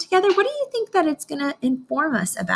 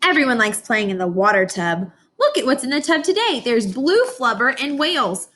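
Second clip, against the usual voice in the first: put-on reading to children. Teacher reads picture book aloud.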